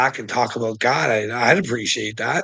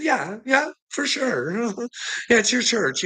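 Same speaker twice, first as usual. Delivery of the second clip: higher, sarcastic yeah yeah; mock agreement; 9 semitones higher than usual. Telling the preacher about his right, higher sarcastic agreement. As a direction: pitch it up in fake agreement. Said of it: "And I said".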